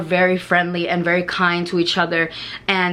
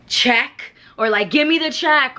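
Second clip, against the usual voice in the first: rude demand; 5 semitones higher than usual. Retold or imitated. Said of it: "do not go".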